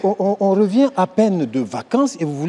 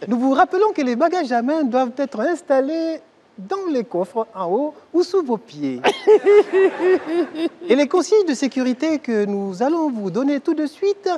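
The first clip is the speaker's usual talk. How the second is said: flight attendant announcement; 3 semitones higher than usual. Acted. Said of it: "C'est moi, l'hôtesse".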